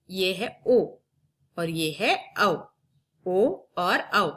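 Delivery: ओ and औ drawn out slowly; teacher slowly contrasting ओ and औ; slow vowel demo. Shown as a demonstration. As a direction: stretch each vowel for the class. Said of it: "आप बार-बार वाचन इसका करेंगे".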